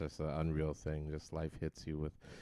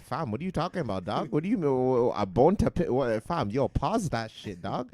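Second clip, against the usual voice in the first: loud, high, exasperated rant; indignant yelling; 5 semitones higher, 11 dB louder than usual. Retold or imitated. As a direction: yell in disbelief. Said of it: "It's like".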